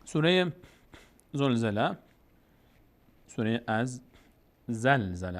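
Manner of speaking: zolzele with o and e vowels, said as a mistake; wrong reading. Shown as a demonstration. Teacher demonstrating the common mistake, zolzele. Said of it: "اصل درستش".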